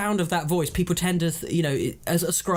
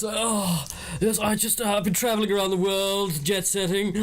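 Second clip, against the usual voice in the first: lightly hammed-up upper-class drone; posh impression with jaded ennui; posh Will. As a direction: play a bored posh globetrotter. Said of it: "answer the question as me".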